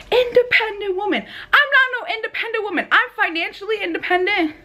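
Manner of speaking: laughing. Real, not acted. Mocking the independent woman trend.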